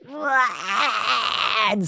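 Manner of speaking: strained mock scream, held back; half-hearted roaring "aah", not at full volume. Shown as a demonstration. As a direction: let out a drawn-out, held-in scream. Imitates screaming to let rip.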